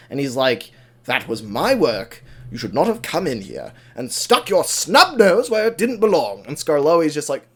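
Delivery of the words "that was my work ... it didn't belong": indignant acted scolding, leaning on the key words; pissed off. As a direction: tell off an intruder, mildly hammed-up. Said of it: "he's just pissed off".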